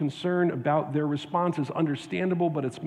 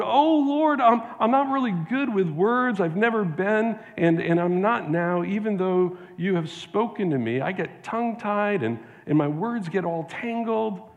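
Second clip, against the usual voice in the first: pleading Moses; 5 semitones higher than usual. Acted. Preacher voicing Moses begging God, higher pitched and pleading. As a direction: plead up high like a nervous man. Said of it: "Moses pleaded with the Lord".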